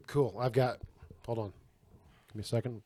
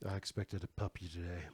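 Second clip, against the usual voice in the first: mock pouting; 6 semitones lower, 14 dB quieter than usual. Partner pouting over missing puppy.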